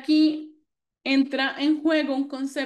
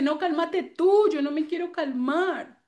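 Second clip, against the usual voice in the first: put-on defiant child; 4 semitones higher than usual. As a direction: throw the words back like a stubborn little kid. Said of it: "el niño te dice". (niño de cuatro años desafiante, con voz más aguda)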